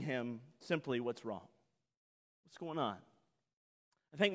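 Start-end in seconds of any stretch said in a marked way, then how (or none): 1.0-3.0 soft, low fatherly question; gentle concern. Acted. Father coming out to his angry son, soft gentle concern. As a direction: ask gently, dropping right down.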